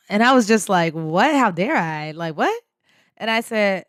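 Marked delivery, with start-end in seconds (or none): 0.9-2.6 baffled retort with rising questions; acted-out disbelief; incredulous echo. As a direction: throw the accusation back in disbelief.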